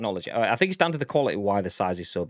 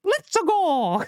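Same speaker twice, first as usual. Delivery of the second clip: much higher mock yell of excitement; hyped cheer; 4 dB louder than usual. Streamer voicing a fan cheering the Mario punch, high mock yell. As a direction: cheer like a fan who just saw the reveal.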